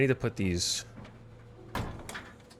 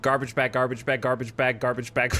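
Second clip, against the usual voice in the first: trying to keep up the garbage bag tongue twister; quick repetition. Shown as a demonstration. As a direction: rattle off garbage bag fast, nearly laughing. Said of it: "if you could say it five times in a row".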